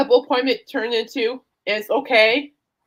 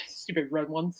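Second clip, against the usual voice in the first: whispering; 6 semitones lower, 12 dB quieter than usual. Real, not acted. Aside while eating sour candy.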